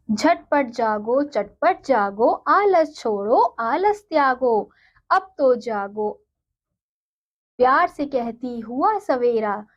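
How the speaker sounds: put-on slow, sing-song reading of a children's poem; poem recitation. Teacher reading a poem to her students, slow and sing-song. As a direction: recite it gently and slowly for the class.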